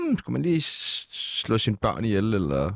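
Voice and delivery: mock pondering. Host joking about how comics hunt for material, mock pondering. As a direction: mull it over slowly with a mock hmm. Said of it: "begynde at tænke i sådan der".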